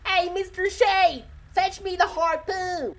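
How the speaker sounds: high, loud, drawn-out redneck holler. Shown as a demonstration. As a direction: holler it like an over-the-top redneck. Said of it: "Give me your best redneck voice".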